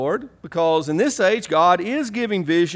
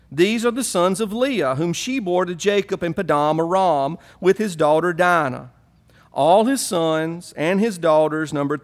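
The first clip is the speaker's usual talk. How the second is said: Southern Hebrew voice. Pretend. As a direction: read the names like a Southern Hebrew redneck. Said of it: "my best Southern Hebrew voice".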